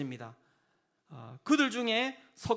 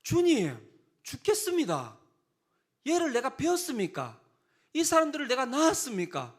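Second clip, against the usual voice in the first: higher, louder fed-up moaning to God; exasperated complaint; 7 semitones higher, 4 dB louder than usual. Acted. Moses complains to God, higher and louder exasperation. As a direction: complain like a worn-out leader. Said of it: "짜증이 난 거예요".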